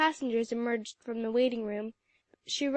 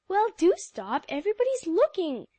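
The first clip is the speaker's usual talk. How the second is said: higher, louder hushing plea; embarrassed cry; 7 semitones higher, 5 dB louder than usual. A narrator's reading. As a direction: hush a laughing friend in public. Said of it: "cried the rest of the girls".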